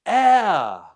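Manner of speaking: "Heir" said like "air", high and loud; silent H. Shown as a demonstration. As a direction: drop the H in "Heir", sound it as "air". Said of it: "it's a silent".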